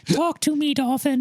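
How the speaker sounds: high, laughing call to the dolphin; laughing mock plea. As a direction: giggle it out to an imagined dolphin. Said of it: "mock dolphin chat".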